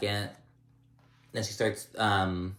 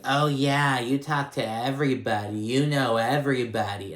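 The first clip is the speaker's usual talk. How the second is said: a sarcastic jab, slightly louder; snide mock Teresa; 3 semitones higher, 3 dB louder than usual. Retelling Teresa mocking Margaret at the table, snide. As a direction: needle her with fake sweetness. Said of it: "she's like".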